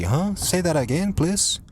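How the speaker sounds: mock confused asking. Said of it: "I always have to say".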